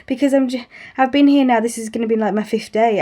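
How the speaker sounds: welling up. Retold or imitated. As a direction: plead while fighting back tears. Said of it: "like, welling up".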